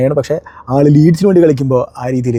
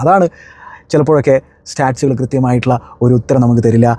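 ordinary delivery

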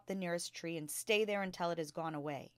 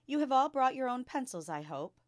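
lightly voiced kind teacher addressing class; a gentle schoolteacher, a touch brighter; Miss Honey, teacher; 7 semitones higher, 7 dB louder than usual. A narrator's reading.

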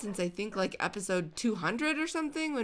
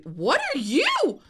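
louder, higher and slower; excited call; 7 semitones higher, 7 dB louder, slower than usual. Real, not acted. Gamer spots a new dog, excited call. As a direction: call out in delight.

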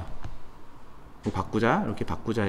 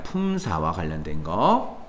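품사와 관련된 거 echoed much lower, softer and slower; soft repeat; 11 semitones lower, 8 dB quieter than usual. Shown as a demonstration. Teacher quietly echoing the point to let it sink in. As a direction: murmur 품사와 관련된 거 again quietly, as if to yourself. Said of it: "teacher states then repeats the point".

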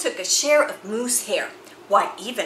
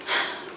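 contented sigh; 6 dB quieter than usual. Acted. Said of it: "Moose sighed".

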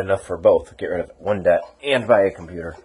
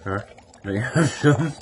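playful begging; 3 semitones higher than usual. Pretend. Teasing the dog.

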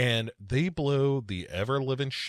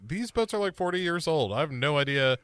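higher-pitched hapless reply; underling cops; 5 semitones higher, faster than usual. Acted. Cops answering their boss about old boats, higher hapless voice. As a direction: play a clueless underling, voice pitched up. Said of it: "And they're like".

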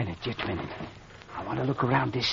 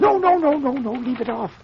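urgent no; 11 semitones higher, 3 dB louder than usual. Acted. Stopping him turning on light.

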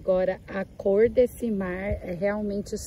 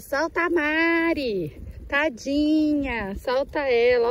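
slow, higher, lightly whining plea; mild mocking tadinha; mock pleading viewers; 5 semitones higher, 3 dB louder, slower than usual. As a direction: imitate the pitying viewers, drawn out. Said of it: "pra aqueles que vão falar".

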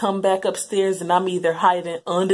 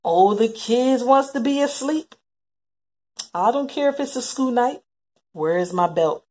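angry parent; 5 semitones higher, 5 dB louder than usual. Retold or imitated. Mother voiced angry at night.

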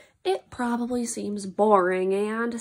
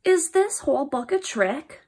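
"Is this whole book a trick" asked with emphasis; question-mark reading. Shown as a demonstration. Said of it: "Here, I'll read it again".

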